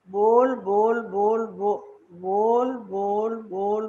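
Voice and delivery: drawn-out, repetitive chant of chatter; mock nonstop talker, each word stretched; mimicked endless talking. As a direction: imitate someone droning on and on. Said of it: "बोलते ही रहते हैं".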